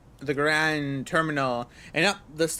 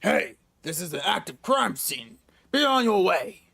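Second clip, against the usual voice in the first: a cop shooing you off, thick Brooklyn; Brooklyn cop accent. Acted. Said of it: "how does the Brooklyn accent go?".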